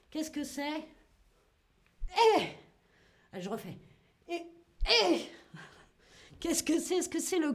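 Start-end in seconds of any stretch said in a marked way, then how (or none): 2.4-2.4 short tennis-serve grunt. Shown as a demonstration. Mime une technique de tennis. 4.3-5.2 short double effort grunt; tennis grunt. Shown as a demonstration. Refait le service avec cri.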